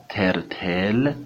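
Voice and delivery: ترتل slowed, its t's tinged with "ch"; English-style t. Shown as a demonstration. Teacher warns of a mishearing, ترتل with English t. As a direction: say ترتل slowly with gum-ridge t's. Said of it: "اگر خوب تلفظ بشه".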